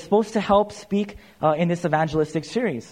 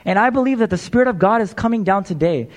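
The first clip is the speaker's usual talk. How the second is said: preaching climax. Acted. Preacher rallying the congregation toward baptism, building fervour. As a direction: preach it home with full conviction.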